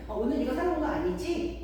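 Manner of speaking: put-on high-pitched little kid's question; lightly voiced child seeking confirmation; child checking. Child checking the shopping rule with parent, innocently asking. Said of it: "아이가 먼저 얘기하고 가요".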